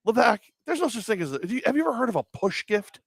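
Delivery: high-pitched imitated call across the room; mock yell. Coworker calls out to Levack, imitated yell. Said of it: "one of them yells out".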